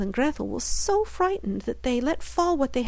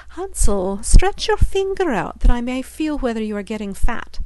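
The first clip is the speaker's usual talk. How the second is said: a louder, demanding witch's call; greedy witch; 2 semitones higher, 5 dB louder than usual. Acted. Witch at the cage demanding to feel Hansel's finger. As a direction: order him to show his finger.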